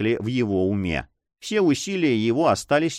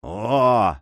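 a louder, ringing cry of recognition; exclamation; 4 dB louder than usual. Acted. Young man recognizing his beloved, exclaims aloud. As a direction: burst out as he recognizes her. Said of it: "воскликнул молодой человек".

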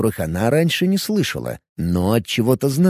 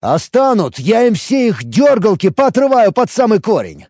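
loud threatening roar; 9 semitones higher, 4 dB louder than usual. A narrator's reading. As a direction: Hank roars threats for the elf, loud. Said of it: "взревел Хэнк".

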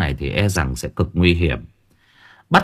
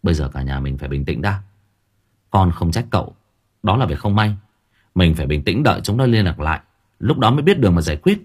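calm and gentle; 2 semitones lower than usual. Acted. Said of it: "giọng ôn tồn".

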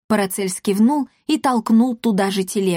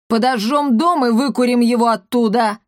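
raised, keen call; eager suggestion; 3 semitones higher, 3 dB louder than usual. Acted. Papa Gautier proposing to burn the house, eager. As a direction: push the bold idea. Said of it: "предложил папаша Готье".

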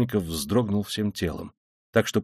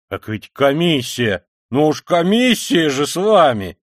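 slow, louder cheerful exclaim; cheerful, slightly raised outburst; cheerful exclamation; 3 semitones higher, 6 dB louder, slower than usual. Acted. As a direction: throw up your hands in merry exasperation. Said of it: "вскричал Порфирий с совершенно весёлым".

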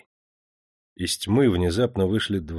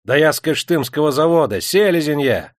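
loud, higher-pitched insistence; raised pleading cry; desperate protest; 5 semitones higher, 5 dB louder than usual. A narrator's reading. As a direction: shout who you are to stop the beating. Beaten steward shouts who he is.

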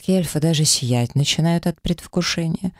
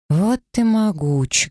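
slow, higher, a touch of awe and dread; light horror; 6 semitones higher, slower than usual. Acted. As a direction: gasp it out, half appalled. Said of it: "говорю с лёгким ужасом в голосе".

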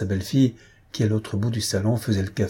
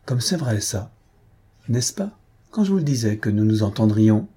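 eager exclaim. Acted. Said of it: "s'écria avec élan".

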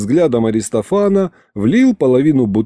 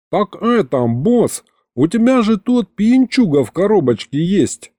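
lightly voiced demon sidekick, pitched higher; бес-подручный; 8 semitones higher than usual. A narrator's reading. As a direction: remind the boss, higher than the narrator. Напомнил бес. (бес, чуть повыше голосом)

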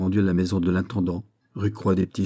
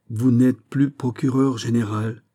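"Vous n'êtes plus procureur général" slow and measured, syllable by syllable; every syllable stressed; 3 semitones higher, slower than usual. A narrator's reading. Aramis, stunned, questions Fouquet with "Vous n'êtes plus procureur général", scanning every syllable. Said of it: "dit-il en scandant chaque syllabe".

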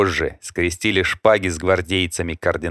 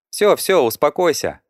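placating; 9 semitones higher, 3 dB louder than usual. A narrator's reading. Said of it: "примирительно подняла руки девушка".

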